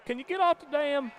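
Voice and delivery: very high mock wife, Midwestern hick twang; English accent gone hick. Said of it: "that sounds like a hick".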